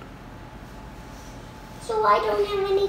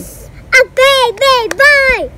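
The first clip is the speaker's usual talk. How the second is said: excited shout; 3 semitones higher, 7 dB louder than usual. Real, not acted. Child answering mom about the new baby, excited shout.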